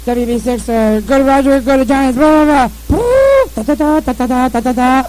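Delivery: mock ship-radio chatter, call signs then nonsense syllables; radio imitation. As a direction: rattle it off like a crackly radio. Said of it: "That's the way that radio sounds".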